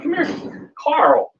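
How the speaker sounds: high sing-song call to the cat "Come here". Real, not acted. Owner calling her cat Carl over, high and sing-song. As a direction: call him over brightly.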